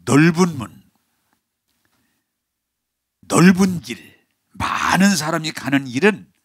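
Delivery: steady pulpit cadence, earnest; preaching. Acted. Pastor preaching on the wide road, earnest pulpit voice. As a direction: preach it to the congregation.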